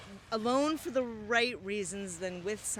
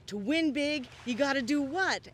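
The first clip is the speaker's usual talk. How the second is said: mock dice guys; 5 semitones higher, 5 dB louder than usual. Acting out dice players' chant.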